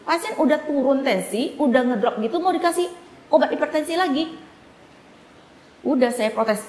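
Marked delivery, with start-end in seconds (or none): 0.1-4.3 higher-pitched indignant argument; retold angry protest. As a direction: re-enact arguing back, incredulous at the treatment. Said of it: "saya marah, saya bilang".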